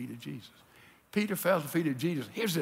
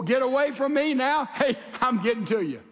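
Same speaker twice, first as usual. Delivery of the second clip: eager rush; 4 semitones higher than usual. Retold or imitated. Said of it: "He jumped in before".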